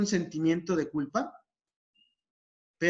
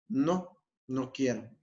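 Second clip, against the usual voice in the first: unmoved no with falling end; firm, even refusal; 3 semitones lower, slower than usual. Shown as a demonstration. Patient answering the pushy smoker, firm and even. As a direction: repeat it calmly, without budging. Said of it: "con el mismo tono de voz".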